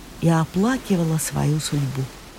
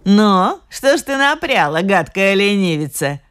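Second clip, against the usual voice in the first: witch's yell; 2 semitones higher than usual. Acted. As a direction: screech at the lazy girl like an old witch. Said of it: "завопила она". (ведьма злобно вопит)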